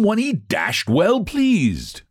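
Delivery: cat drawls an answer to Sir Wilfrid; drawling cat. A narrator's reading. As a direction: drag the words out like a lazy cat. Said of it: "drawled out ... horribly natural voice".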